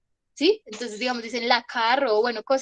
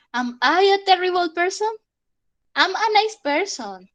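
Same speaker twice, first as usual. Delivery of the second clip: high, louder anguished question; dramatic self-doubt; 7 semitones higher, 4 dB louder than usual. Shown as a demonstration. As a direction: ham up the self-doubt then reassure. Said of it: "Si nos queremos poner profundos".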